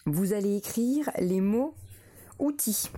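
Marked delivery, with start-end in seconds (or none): 2.4-2.9 whisper. Shown as a demonstration. Dictation word whispered.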